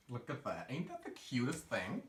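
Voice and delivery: put-on southern accent; light mock southern accent. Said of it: "going for a southern accent here".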